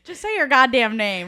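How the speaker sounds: loud laughing order; exasperated shout. Real, not acted. Sister snapping at sister to just introduce herself. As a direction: yell it at her sister, half joking.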